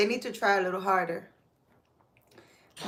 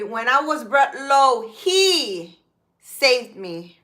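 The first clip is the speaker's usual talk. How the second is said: with attitude; 2 semitones higher, 4 dB louder than usual. Real, not acted. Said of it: "I'm saying it with attitude".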